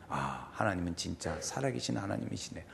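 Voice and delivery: low, soft murmur of awe; subdued, low-pitched wonder; hushed realisation. Acted. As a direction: say it quietly to yourself, as it sinks in. Acts Gideon's awed realisation.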